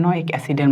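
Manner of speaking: নয়িক অ্যাসিডের starting with a clear n; teacher showing how নয়িক is pronounced; joined pronunciation. Shown as a demonstration. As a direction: say নয়িক as no-yik, n first. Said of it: "উচ্চারণ হয়".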